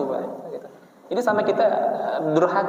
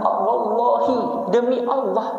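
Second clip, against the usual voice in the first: iblis swearing falsely; 5 semitones higher, much slower than usual. Acted. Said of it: "iblis ketika itu menggunakan istilah".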